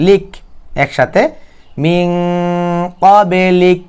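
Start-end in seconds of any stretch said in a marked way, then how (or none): 1.8-3.8 "কবে leak" with the b bounced before "leak"; কলকলা সহ. Shown as a demonstration. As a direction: release the b in "কবে" with a small echo. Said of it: "কি হবে?". ("কবে" ব-তে ধাক্কা দিয়ে)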